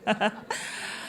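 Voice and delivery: short soft chuckle. Real, not acted. Judge pleased that the trick worked, soft chuckle. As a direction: chuckle quietly to yourself. Amused at own trick working.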